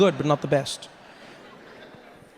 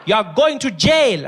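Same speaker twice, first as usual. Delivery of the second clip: mock stern sentence; 7 semitones higher, 6 dB louder, slower than usual. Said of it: "You'd be like".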